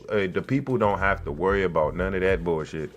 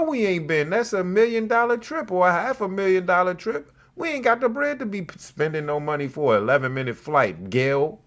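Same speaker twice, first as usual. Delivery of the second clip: ranting; 8 semitones higher than usual. Real, not acted. Ranting at Gail.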